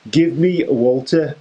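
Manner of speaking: put-on Pete Dunne's line slipping into a Scouse accent; a failed Brummy attempt that comes out Liverpool Scouse; accidental Scouse. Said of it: "Now that sounded Scouse".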